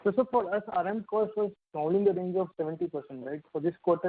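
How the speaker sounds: scrambled, breaking-up phone line; words garbled over a bad connection. Real, not acted. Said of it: "your voice is garbled".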